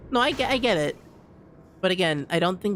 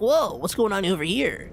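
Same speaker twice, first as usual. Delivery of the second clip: lightly voiced wisecracking cartoon character; a hint of cartoon surprise, swooping pitch; Sonic the Hedgehog style; 3 semitones higher than usual. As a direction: do a light mock cartoon-hero catchphrase. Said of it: "like a Sonic the Hedgehog style".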